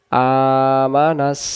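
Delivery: slow melodic recitation, nasal hum on the nun; slow Quran recitation. Shown as a demonstration. Teacher recites the word for students in a slow chant. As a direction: chant each sound out slowly with ghunna. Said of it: "দম ফেলার জায়গা".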